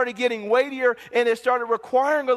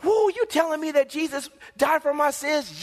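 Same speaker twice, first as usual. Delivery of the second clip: higher-pitched, wide-eyed question; thrilled disbelief, pitched up; excited new believer; 5 semitones higher than usual. Acted. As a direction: act out an amazed, excited convert. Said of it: "they get excited".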